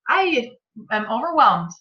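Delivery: slow, mock-whimpering overwhelmed sigh. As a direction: let it out with a near-cry. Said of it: "and inside I'm like".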